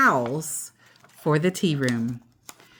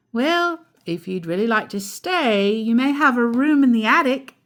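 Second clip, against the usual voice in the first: kind mother; 4 semitones higher than usual. Acted. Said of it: "said Nicky's mother".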